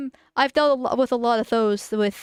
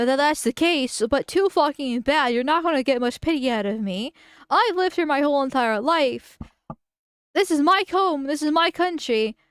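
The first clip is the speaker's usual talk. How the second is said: swearing tirade; 3 semitones higher than usual. Real, not acted. Continues the rant at foreigner.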